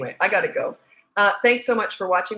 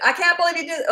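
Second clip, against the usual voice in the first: retold yell; 9 semitones higher than usual. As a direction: replay the yell at the son, less than full. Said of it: "and I yelled".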